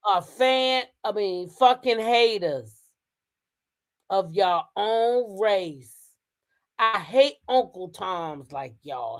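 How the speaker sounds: slow quote with drawn-out words; reading her words out. Retold or imitated. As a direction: read the insults out slowly, word by word. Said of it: "She said".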